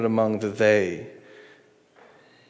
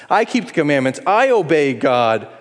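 mock indignant, rising on why would; hammed-up self-righteous grumble; 4 semitones higher, 4 dB louder than usual. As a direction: play the pious complainer. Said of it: "Self-righteousness".

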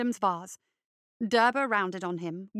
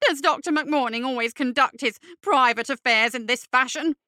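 indignant fop voice; 3 semitones higher, 6 dB louder than usual. Acted. Derber character voice.

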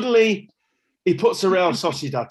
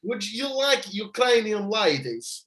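put-on slow, higher Russian accent going astray; botched Russian accent; 5 semitones higher, slower than usual. Retrying Roman's offer to Stubbsy, botched Russian accent. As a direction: stretch out a wobbly attempt at Russian. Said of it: "No, that's gone the same".

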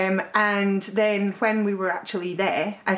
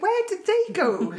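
puzzled question; 13 semitones higher than usual. Retold or imitated. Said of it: "we're like".

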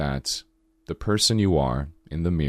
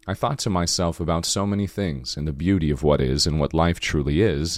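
sultry morning voice. Real, not acted. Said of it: "you get my sultry morning voice".

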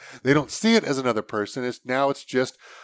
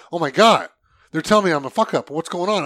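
alarmed reading; 4 semitones higher, 4 dB louder than usual. Retold or imitated. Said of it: "it's like".

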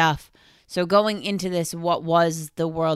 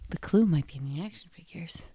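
hushed, breathy whisper; 4 dB quieter than usual. Real, not acted. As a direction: whisper the clue back. Repeats clue in a hushed voice.

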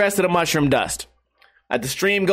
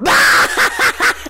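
a sudden high, loud shriek of a laugh; 6 dB louder than usual. Retold or imitated. Streamer reliving his mushroom laughing fit, shrieking laugh. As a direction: burst into a wild, high cackle.

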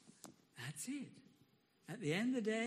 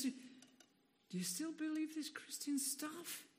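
slow, soft, sneering whisper of doubt; the nagging inner voice questioning his faith, slow and soft; 4 semitones higher, 4 dB quieter than usual. Acted. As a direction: tempt him slowly and quietly, like a nagging doubt. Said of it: "a little voice says".

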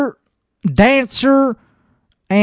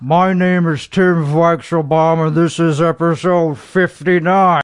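lightly put-on show host voice; 2 semitones lower than usual. Host opening his own show in a mild pompous voice. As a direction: introduce yourself like a self-serious host.

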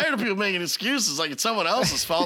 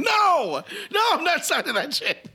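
mock refusal; 9 semitones higher than usual. Refusing fan in pretend scene.

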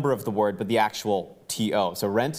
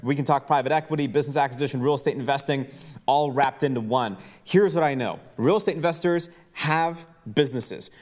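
higher-pitched announcer pitch; event promo read; 5 semitones higher than usual. Acted. Host pitches the Houston event to listeners, promo read. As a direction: sell the event with punchy, raised delivery.

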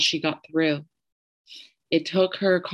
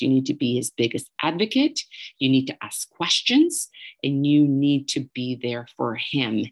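imitated incensed friend; 2 semitones lower than usual. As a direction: lecture her sternly as the friend did. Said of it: "her anger through the phone".

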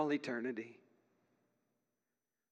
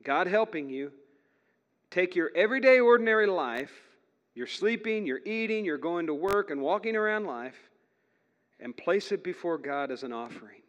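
loud, higher, urgent exhortation; full preaching voice; 5 semitones higher, 7 dB louder than usual. Retold or imitated. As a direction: preach it out to the crowd. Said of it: "This is Paul saying to the Roman church".

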